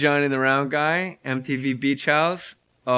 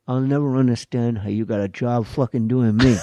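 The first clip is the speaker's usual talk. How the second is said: Buddy Hackett; 4 semitones lower than usual. Retold or imitated. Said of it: "he goes".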